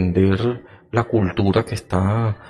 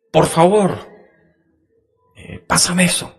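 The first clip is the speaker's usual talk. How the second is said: "Por favor, pásame eso" said much higher; higher pleading tone; 8 semitones higher, 4 dB louder than usual. Shown as a demonstration. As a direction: lift the whole request up high. (tono más agudo, suplicante)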